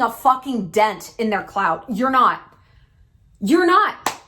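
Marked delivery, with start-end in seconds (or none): 1.9-4.2 second "You're not" pushed higher and louder; emphatic repeat. Shown as a demonstration. To posers, insisting louder the second time. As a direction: hammer home "You're not". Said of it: "repeated for emphasis".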